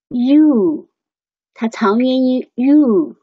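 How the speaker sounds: "you" with a drawn-out long u; long vowel. Shown as a demonstration. (拉长元音读you)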